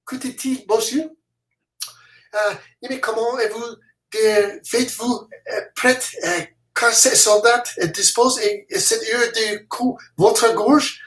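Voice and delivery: a hint of a frightened Frenchman begging; French soldier.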